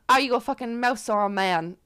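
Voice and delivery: weak put-on Irish accent, half-joking; bad Irish accent. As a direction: ham up a clumsy Irish barmaid.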